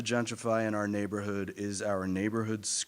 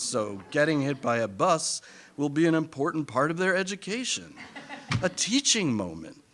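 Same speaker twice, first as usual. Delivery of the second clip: mock self-persuasion; 4 semitones higher than usual. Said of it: "we tell ourselves".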